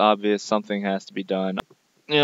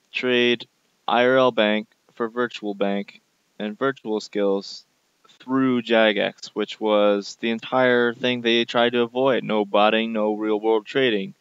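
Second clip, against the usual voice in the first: angry rant. Real, not acted. Ranting against game updates.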